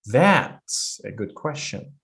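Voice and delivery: slow and drop the voice at the end; falling tune. Shown as a demonstration. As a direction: question read slowly, the voice settling down. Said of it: "So she falls here".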